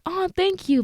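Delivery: high-pitched grateful thanks; retold touched thanks. Podcaster thanking a girl who loves the podcast, retold high thanks. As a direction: imitate a high little thank-you.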